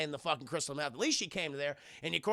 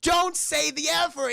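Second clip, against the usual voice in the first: higher, louder, drawn-out teacher's warning; mock scolding; 9 semitones higher, 7 dB louder, slower than usual. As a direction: scold slowly as an imitated teacher. Acted teacher scolding Cartman.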